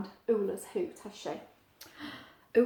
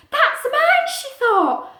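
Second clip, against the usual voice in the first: Ula; 14 semitones higher, 10 dB louder, slower than usual. Acted. Ula hears her hoot.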